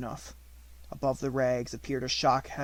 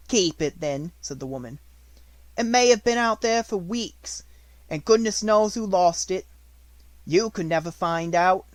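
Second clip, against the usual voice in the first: high, loud, kindly baker; a cheerful motherly baker; hearty baker woman; 5 semitones higher, 7 dB louder than usual. A narrator's reading.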